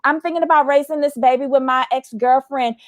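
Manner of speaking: breezy imitation of dropping news in passing; nonchalant. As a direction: toss it off as if it were nothing. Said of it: "he said it so nonchalantly".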